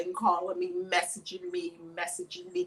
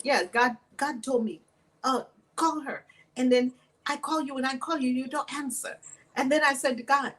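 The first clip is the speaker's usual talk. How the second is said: imitated Omani accent, halting phrases. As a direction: retell it in his Omani-accented English. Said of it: "He's saying all this in his accent from Oman".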